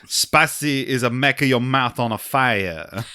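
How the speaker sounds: lightly done French waiter; mild French waiter accent; thick French accent. Acted. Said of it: "The waiter has a very thick French accent".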